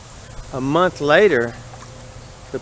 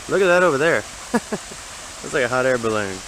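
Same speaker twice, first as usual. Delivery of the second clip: a touch of put-on excitement, then a laugh; mock thrilled spotting, breaking into a laugh; faked enthusiasm. Shown as a demonstration. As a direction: replay the excited discovery, a bit forced. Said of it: "kinda feel like you're faking the enthusiastic enthusiasm".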